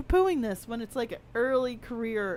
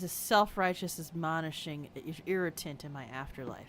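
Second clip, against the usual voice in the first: whispered aside; 8 semitones lower, 11 dB quieter than usual. Real, not acted. Muttered grievance about game character.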